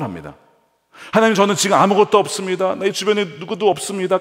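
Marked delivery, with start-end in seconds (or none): 1.1-4.2 high, loud, pleading cry to God; Jacob's pleading prayer. Acted. Jacob pleads with God, having nothing: loud pleading prayer. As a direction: beg God with nothing left, voice straining high.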